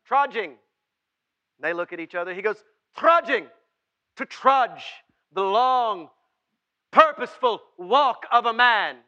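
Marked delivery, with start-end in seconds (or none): 0.0-0.6 high, loud mock-British delivery; hammed-up British, punched out; British accent. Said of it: "That's my best British". 2.9-9.0 loud, high, slow British declamation; hammed-up British, grand and loud; British accent. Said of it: "'cause he's British".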